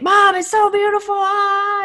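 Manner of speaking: very high, excited talk through a snorkel. Retelling a son's excited words while snorkeling: imitating talking through a snorkel. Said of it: "he'd snorkel talk".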